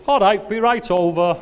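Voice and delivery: high, loud calling back; mock-obliging holler; cheery shouted reply. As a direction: call out gamely across a distance.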